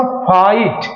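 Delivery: फाइट drawn apart as faa-eet; double vowel shown. Shown as a demonstration. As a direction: sound both vowels in फाइट separately. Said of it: "फा में आ का sound". (फाइट को फा-ईट, दोनों स्वर अलग)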